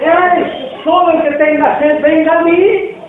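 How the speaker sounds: high, loud call to the whole crowd; shouting to the crowd. Acted. Jesus calling out to the festival crowd, loud shout. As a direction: cry out so thousands can hear. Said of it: "gritó a la multitud".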